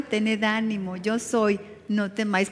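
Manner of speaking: gentle and soft reassurance. Retold or imitated. The Lord comforting frightened disciples, soft and gentle. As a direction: say it softly, like a comforting voice. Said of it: "las reconfortantes palabras del Señor".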